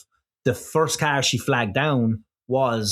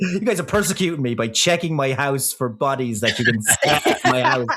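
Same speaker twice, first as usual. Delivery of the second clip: mock indignant killer, laughing through it; laughing killer quote. Mocking the killer to friends, laughing mock outrage. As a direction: sneer out the killer's complaint with a laugh. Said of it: "John Wayne Gacy done the same thing".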